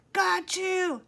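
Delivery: high triumphant shout. A narrator's reading. Chet leaping out at his friends, gleeful shout. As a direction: gloat as you leap out. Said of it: "Chet shouted".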